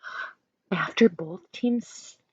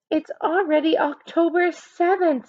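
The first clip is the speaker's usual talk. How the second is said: put-on girl voice; 8 semitones higher than usual. A narrator's reading. Maria voiced in story.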